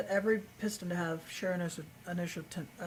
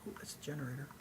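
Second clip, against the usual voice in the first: whispering; 2 semitones lower, 9 dB quieter, much faster than usual. Real, not acted. Spotting a generator, hushed.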